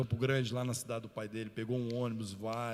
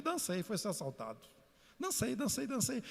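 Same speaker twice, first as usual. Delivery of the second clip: mock despair; 10 semitones higher than usual. Pastor expecting to be robbed.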